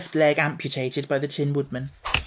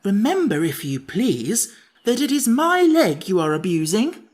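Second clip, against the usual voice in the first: higher, louder sharp retort; sharp rebuke; 6 semitones higher, 5 dB louder than usual. A narrator's reading. Pumpkinhead scolding the Sawhorse, sharp and loud. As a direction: cut him off sharply. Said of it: "said the Pumpkinhead sharply".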